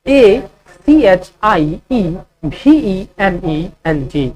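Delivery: slow letter-by-letter dictation; slow spelling dictation; spelling out slowly. Shown as a demonstration. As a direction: spell each letter clearly for students. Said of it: "अचीवमेंट का spelling होगा".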